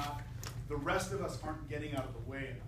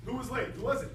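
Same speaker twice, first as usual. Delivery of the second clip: calling out; 6 semitones higher, 5 dB louder than usual. Real, not acted. Conductor calls out to band.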